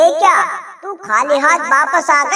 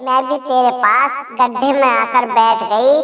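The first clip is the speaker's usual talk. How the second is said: put-on a lower, needling old mother-in-law; mother-in-law taunting her bahu, lightly lower voice; lightly voiced taunting mother-in-law; 4 semitones lower than usual. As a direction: goad the daughter-in-law, a touch lower.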